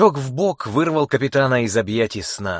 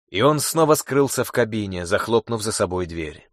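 ordinary delivery, nothing marked

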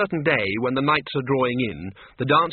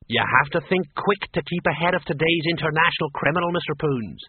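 a touch higher, earnest watchman voice; respectful watchman; 4 semitones higher than usual. Acted. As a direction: explain police work earnestly, in character.

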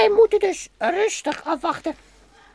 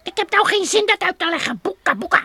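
impatient; 6 dB louder, faster than usual. Acted. Kwartje eager to hunt.

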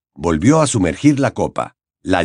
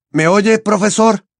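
high, urgent call; mildly raised, anxious call; 11 semitones higher, 3 dB louder than usual. A narrator's reading. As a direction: call out to rouse the professor. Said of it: "repitió en voz alta".

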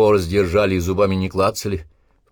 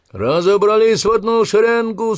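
high, loud parade-ground order; shouted command; 13 semitones higher, 7 dB louder than usual. Acted. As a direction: snap the order across the square. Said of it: "скомандовал Обух".

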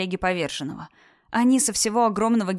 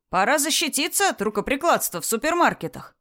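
fiery revolutionary speech; 6 semitones higher than usual. Acted. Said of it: "крикнул парень".

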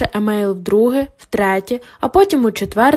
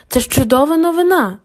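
delighted; 4 semitones higher than usual. Acted. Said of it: "докторка Аслан чомусь усміхалась".

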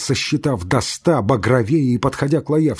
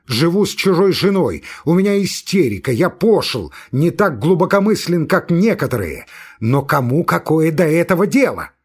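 raised, louder, quick nervous outburst; a man on the edge of hysteria pushing people away; agitated protest; 6 semitones higher, 4 dB louder than usual. Acted. Agitated Laevsky protests to friends.

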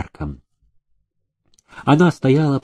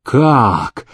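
flaring. A narrator's reading. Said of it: "вспыхнул он гневом".

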